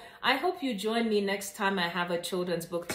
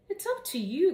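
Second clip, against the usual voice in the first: grinning; 9 semitones higher than usual. A narrator's reading. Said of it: "grinned Janie".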